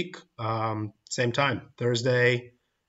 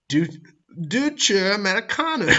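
high, exaggerated German accent on Deutsche Amerikaner; mock German accent, a laugh close behind; 8 semitones higher, 3 dB louder than usual. Shown as a demonstration. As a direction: bark it out in a hammed-up German accent. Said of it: "I can't do a German accent".

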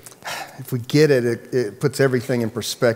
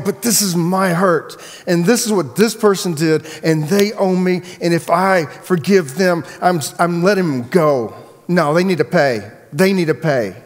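raised-pitch, insistent grievance; self-justifying complaint in a higher voice; indignant protest; 4 semitones higher than usual. Acted. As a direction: insist on your hurt, pitched up. Voices the unforgiving person's protest.

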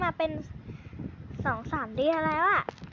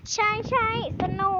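excited yell; 4 semitones higher, 3 dB louder than usual. Acted. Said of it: "อยู่ๆก็ตะโกนออกมา".

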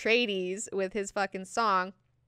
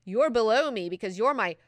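condescending burn; 5 dB louder than usual. Acted. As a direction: put her in her place, leaning hard on "daughter". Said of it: "the second burn".

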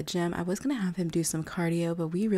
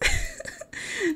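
high-pitched squealing giggle; high squeal laugh. Real, not acted. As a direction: let out a squeaky delighted laugh. Narrator laughs after gossip joke.

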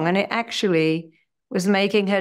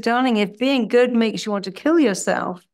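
playful coaxing; 2 semitones higher than usual. Retold or imitated. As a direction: egg her on to be a little wild. Playful challenge to patient.

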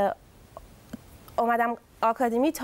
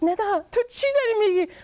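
laughing mom; 11 semitones higher, 4 dB louder than usual. Retold or imitated. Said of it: "یهو مامانم خندید، گفت".

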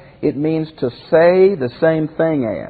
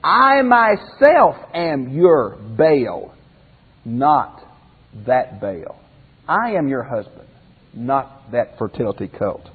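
I myself said slowly, weight on I; the I emphatic and drawn out; stress on I; slower than usual. Shown as a demonstration. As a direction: lean hard on I, myself, very slow. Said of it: "the I is emphatic".

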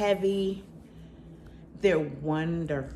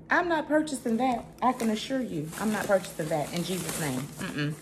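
sassy refusal; 3 semitones higher than usual. Real, not acted. Refusing the expensive curtains.

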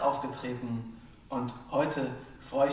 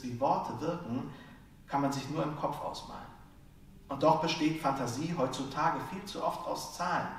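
rhythmic, rhyme-driven stage delivery; slam poetry; 3 semitones higher than usual. Acted. Slam poet performs his piece on wordplay, rhythmic spoken word.

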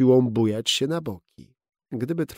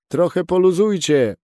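loud, higher call to the twins; 5 semitones higher, 6 dB louder than usual. A narrator's reading. Skipper tells the twins to ease the sail, loud call. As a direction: call the order across the boat. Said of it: "zawołał".

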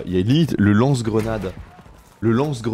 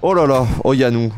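louder alarmed oh là là; loud exclamation; 6 dB louder than usual. Real, not acted. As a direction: call out to a teammate in alarm. Teammate exits wrong side.

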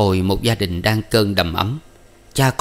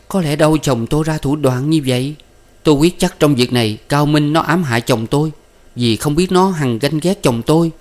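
higher-pitched, mildly distraught woman; tearful protest; 6 semitones higher than usual. A narrator's reading. Wife refuses to believe husband's guilt, lightly tearful protest. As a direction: protest with a touch of weeping, pitched up. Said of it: "nghe nói khóc ngất lên".

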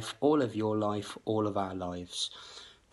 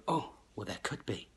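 musing voice; 6 dB quieter than usual. Retold or imitated. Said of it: "Most people were sitting there thinking".

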